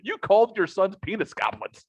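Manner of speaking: quoting her through laughter; laughing. Retold or imitated. Dad imitates the girlfriend telling him off, laughing. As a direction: let the laugh break into the words. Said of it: "she's laughing in hysterics".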